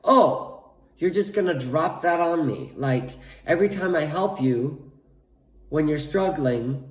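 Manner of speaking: mocking what mom really means; sarcastic mockery. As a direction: spell out mom's guilt trip with scorn. Mocking mom's hidden message.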